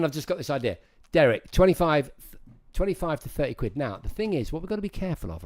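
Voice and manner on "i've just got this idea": meek statement. Shown as a demonstration. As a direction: say it timidly, no ask. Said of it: "rather than".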